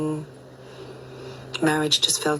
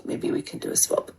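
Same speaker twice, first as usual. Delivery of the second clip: whispered. Real, not acted. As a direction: let it fall to a whisper. Sad breakup update.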